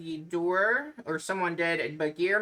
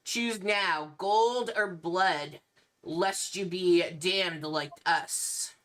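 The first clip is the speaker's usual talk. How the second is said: vampire noble voice. Acted. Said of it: "the one in the center".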